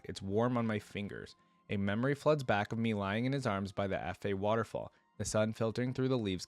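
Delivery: storytelling with lightly voiced dialogue; measured narration, easing down into the memory; first-person story narration. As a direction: read the scene aloud as a tale. Reads first-person story aloud.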